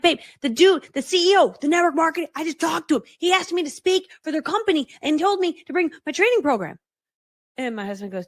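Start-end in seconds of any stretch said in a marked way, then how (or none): 0.0-6.8 high, loud, dramatic lament; comic melodrama. Retold or imitated. Wife lying on the ground telling her husband, melodramatic. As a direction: wail it out for laughs, pitched up. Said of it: "dramatic, 'cause I do things like that to be funny".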